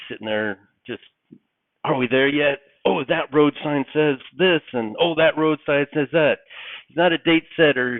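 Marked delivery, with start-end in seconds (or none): 1.8-6.4 put-on higher, eager kid voice; excited child. Kid in back seat spotting road signs, excited. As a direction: marvel at each new thing like a child. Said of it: "so excited".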